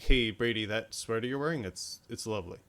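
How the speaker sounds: casual, offhand mock compliment; monotone. Likening her reply to praising a sweater, offhand monotone. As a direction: let it sink into bland politeness. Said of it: "in a monotone voice".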